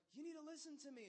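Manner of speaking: a hint of a strict father; stern dad. Dad scolds his daughter.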